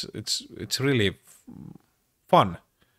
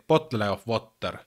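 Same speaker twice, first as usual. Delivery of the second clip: Finnish-accented "bottle of water", every t sounded. Shown as a demonstration. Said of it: "like a true Finnish person".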